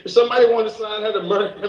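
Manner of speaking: talking fast through laughter; giggling while rushing the words; laughing, quick and breathy. Real, not acted.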